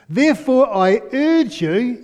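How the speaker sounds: impassioned urging. Acted. Paul pleading with new believers in Corinth, impassioned. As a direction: press it hard, as if neck veins bulge. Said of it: "the old veins are coming out in his neck".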